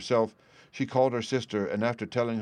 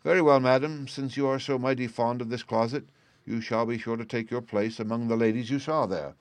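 menacing threat; 3 semitones higher than usual. Acted. Bluebeard threatens his wife.

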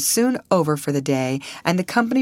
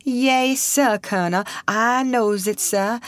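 put-on high-pitched, deferential old man; humble old man; 8 semitones higher, slower than usual. A narrator's reading. Old man answering a soldier's scolding, humble and high. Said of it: "replied the aged negro with a low bow".

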